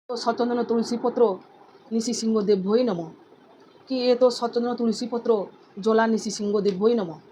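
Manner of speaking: steady repeated offering mantra, name by name; mantra recital. Shown as a demonstration. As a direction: intone each offering calmly. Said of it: "এইভাবে নটা নাম ধরে ধরে".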